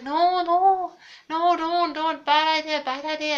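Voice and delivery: high, loud panicked no, no; frantic high-pitched begging; panicked pleading. Retold or imitated. Friend begging her not to look.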